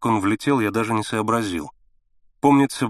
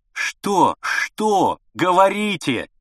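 pained outcry; 7 semitones higher, much slower than usual. A narrator's reading. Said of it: "выкрикнул я болезненно".

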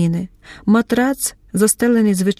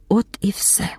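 whisper; 5 dB quieter than usual. A narrator's reading. Narration drops to whisper.

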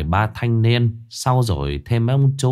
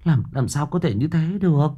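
stammering protest; 7 semitones higher than usual. Acted. Aunt stammers in denial that the boy is dead, higher and halting. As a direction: stumble over the words, refusing to believe. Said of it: "ú ớ cãi".

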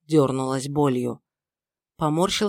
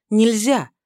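нельзя flung out higher and louder; louder repeat; 5 semitones higher, 6 dB louder than usual. Acted. Mother-in-law repeating нельзя to Filipp, louder. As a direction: hammer нельзя home.

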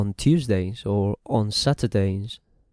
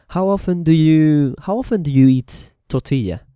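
higher, louder teacher question voice; model question; 5 semitones higher, 6 dB louder than usual. Shown as a demonstration. Teacher modelling a question for Spanish learners, higher and louder. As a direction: ask it brightly as a model question. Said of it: "The first one is".

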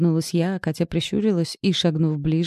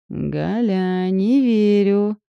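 slow, drawn-out and louder; 3 semitones higher, 4 dB louder, much slower than usual. Acted. Friend drawls her disbelief during a massage. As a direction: stretch every word lazily. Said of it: "протянула подруга".

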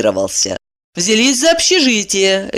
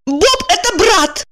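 high, slow exclamation in a woman's voice; exclaiming woman; 14 semitones higher than usual. A narrator's reading. Woman exclaiming to Kirillov, high and slow. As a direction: cry out the news, pitched high. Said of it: "воскликнула Евдокия".

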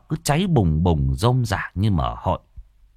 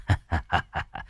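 fawning chuckle; 5 semitones lower, 7 dB quieter than usual. Acted. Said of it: "miệng xun xoe".

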